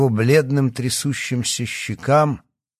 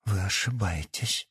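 frightened, much softer; frightened babble; 8 dB quieter than usual. A narrator's reading. Yana denying, frightened, to the doctor. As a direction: babble it in fear. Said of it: "испуганно пролепетала Давыдова".

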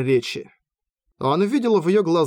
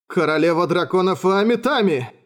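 blurted out in awe, raised; awed exclamation; 4 semitones higher than usual. A narrator's reading. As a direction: cry out on reflex in awe. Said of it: "на автомате воскликнул".

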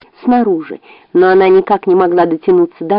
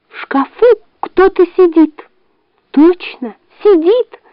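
high, agitated fox voice; anxious and high-pitched; excited fox; 10 semitones higher than usual. Acted. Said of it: "взволнованно повторила лиса".

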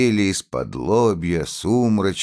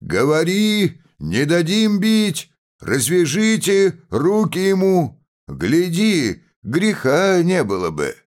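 crowd shouting; 11 semitones higher than usual. A narrator's reading.

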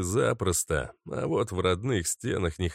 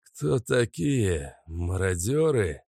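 put-on dazed old man; slower than usual. Dazed old man questions intruders.

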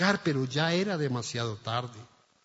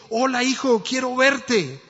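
excited father; 7 semitones higher, 5 dB louder than usual. Acted. Father calls son, excited.

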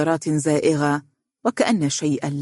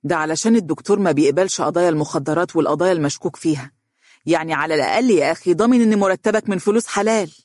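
fast, heated defence; agitated; faster than usual. Acted. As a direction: rattle it off, rising as you argue. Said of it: "قال فارس بانفعال". (بانفعال)

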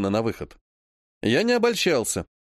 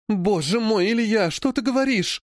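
acted indignation; 6 semitones higher than usual. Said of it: "талантливо отыгрывала возмущение".

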